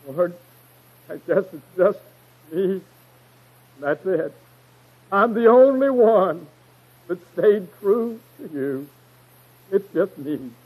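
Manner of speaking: mock self-pity in halting phrases. Prophet complaining to God under a tree, mock self-pitying. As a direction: wallow a little, with long pauses between phrases. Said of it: "wallowing in self-pity".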